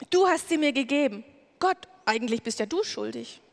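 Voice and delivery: mildly acted self-defense, shifting blame; defensive excuse. Adam defending himself before God, mildly indignant. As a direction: protest your innocence, point at others.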